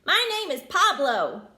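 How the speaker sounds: a friendly prairie dog introducing himself; Pablo voice. Acted. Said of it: "he said".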